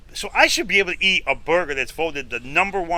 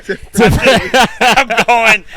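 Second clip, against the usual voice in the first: straining through a bite; 7 semitones higher, 9 dB louder, much slower than usual. Retold or imitated. Forcing down a bad burger.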